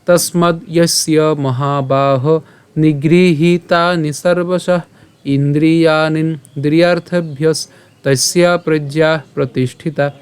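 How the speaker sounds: slow, measured Sanskrit verse; shloka recitation. Shown as a demonstration. Teacher presenting today's shloka to learners, slow recitation. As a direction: recite the verse with drawn-out long vowels. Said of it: "আমি আবার বলছি".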